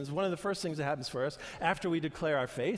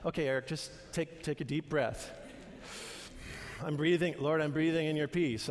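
calming self-talk. Retold or imitated. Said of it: "And I'm like".

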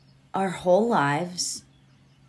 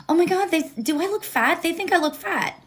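panicked inner voice; 8 semitones higher, faster than usual. Retold or imitated. Voicing anxious inner thoughts, higher.

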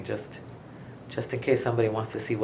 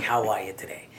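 whisper; 3 semitones lower than usual. Pretend. Greeting the skeleton, whispered.

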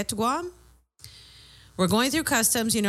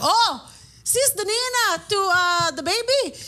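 excited officers; 9 semitones higher, slower than usual. Retold or imitated. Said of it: "They're like".

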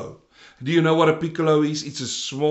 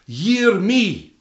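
mock preacher demanding attention, pitched higher; self-important preachers; 4 semitones higher, 4 dB louder, much slower than usual. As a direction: lightly imitate preachers calling attention to themselves. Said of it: "a lot of the preachers of today say".

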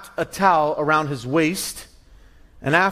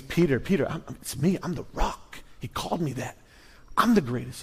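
boasting disciple; 4 semitones lower, 8 dB quieter than usual. Retold or imitated. Peter voiced boasting.

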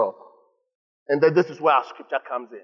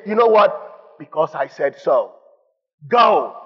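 stern parent; slower than usual. Retold or imitated. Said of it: "a parent telling a kid".

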